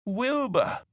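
high, astonished gasp of a name. A narrator's reading. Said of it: "gasped Elmer".

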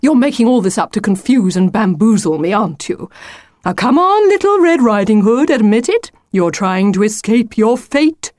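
accuse, then cajole her to give in; suspicious wolf, coaxing. Acted. Wolf urging Lucy to accept her fate, coaxing.

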